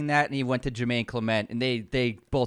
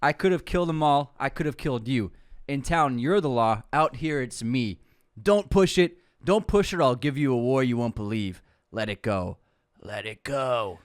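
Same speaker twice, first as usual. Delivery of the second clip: Rambo quote; 2 semitones lower than usual. Acted. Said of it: "One more time".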